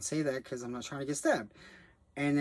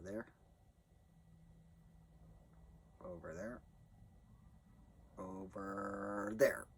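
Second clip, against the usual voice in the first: mock spooky voice; 5 semitones lower, 11 dB quieter than usual. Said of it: "pointing himself out on screen".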